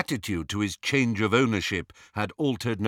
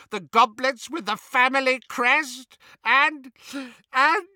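high croaky wail, climbing higher as it goes; distraught elf; 10 semitones higher than usual. A narrator's reading. House elf confessing the thefts to Harry, increasingly hysterical. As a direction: list each loss with mounting distress, gulping for air. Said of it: "Creature was gulping for air".

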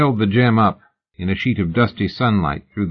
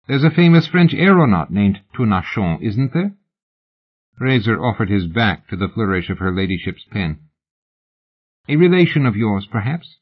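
eager fan. Acted. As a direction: gush a little as an autograph hunter. Fan chatters to lady.

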